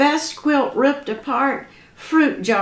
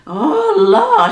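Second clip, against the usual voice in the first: squalling; 10 semitones higher, 6 dB louder than usual. Acted. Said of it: "she squalled".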